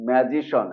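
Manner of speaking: "ম্যাজিশন" ending in one syllable shon; correct SHON ending. Shown as a demonstration. Teacher gives the correction, "ম্যাজিশন" ending in shon. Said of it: "এটা হয়ে যাবে".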